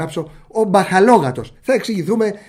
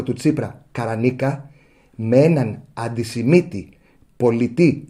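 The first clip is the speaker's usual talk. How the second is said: pointed mock reply; 4 semitones lower than usual. Journalist answering the minister's weed question, low deliberate deadpan. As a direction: answer the minister with unhurried, cutting calm. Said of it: "του απαντάς όπως πρέπει. Δηλαδή, έτσι".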